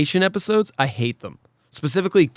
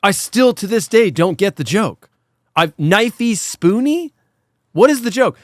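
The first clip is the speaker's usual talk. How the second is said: exasperated; 4 semitones higher than usual. Real, not acted. Baffled rant about the joke.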